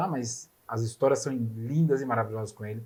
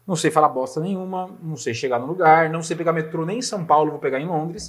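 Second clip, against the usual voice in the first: retold panic; 3 semitones higher, 5 dB louder than usual. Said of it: "Eu falei".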